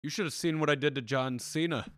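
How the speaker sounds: put-on shitty Minnesota accent; badly faked Minnesota accent, close to Irish; Brock Lesnar. Wrestler boasting about John Cena, in a shitty Minnesota accent. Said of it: "I'm doing a shitty Minnesota accent".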